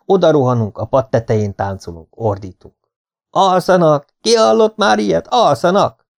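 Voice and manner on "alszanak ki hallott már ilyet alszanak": high, loud indignant shouting; outraged. Acted. Chemistry teacher shouting at the class, outraged and high. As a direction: cry out in scandalised disbelief.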